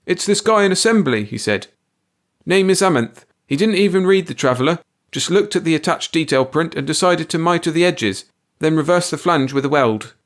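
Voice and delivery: a touch of stunned disbelief; dazed. A narrator's reading. Planner reporting to the boss, stunned and shaken. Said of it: "returned with a pale, dazed look".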